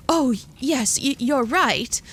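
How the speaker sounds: bright, eager chime-in; chiming in. A narrator's reading. Edith agrees with Lily as the girl nods, eagerly. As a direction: chime in eagerly, stumbling a little. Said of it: "Edith chimed".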